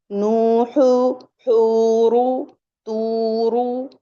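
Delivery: "नूहु, हूरु, तूरु" with long held "oo"; "नूहु, हूरु" stretched first vowel, short ending; two-count waw madd. Shown as a demonstration. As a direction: recite "तूरु" slowly on a sustained tone. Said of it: "ऐसे पढ़ेंगे".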